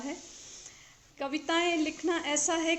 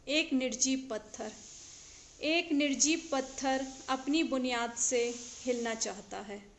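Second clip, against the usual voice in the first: measured verse reading with pauses between phrases; poetry recitation. Acted. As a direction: recite each line deliberately, letting the endings fall. Recites her second poem.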